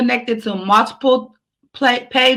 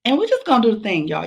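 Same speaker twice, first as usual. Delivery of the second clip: breathless from running and dancing; out of breath, gasping between phrases. Real, not acted. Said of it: "I'm out of breath 'cause I was, like, running".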